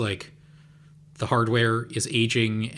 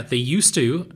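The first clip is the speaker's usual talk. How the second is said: "used to" drawn out and stressed; emphasis on "used to", stretched out. Real, not acted. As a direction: lean slowly on the words "used to". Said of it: "emphasis on used to".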